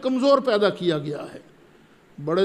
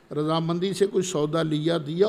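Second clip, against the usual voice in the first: ordinary talk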